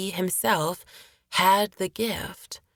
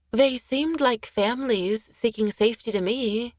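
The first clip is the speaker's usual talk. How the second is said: higher-pitched, lightly voiced young woman; defiant young woman; 5 semitones higher than usual. Caitlin defending refugee families to the sailor, mildly defiant. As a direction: stand up for them in a higher voice.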